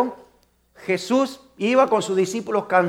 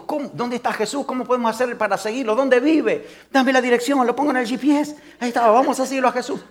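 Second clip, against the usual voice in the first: eager questions; 4 semitones higher than usual. Acted. Blind men asking eagerly.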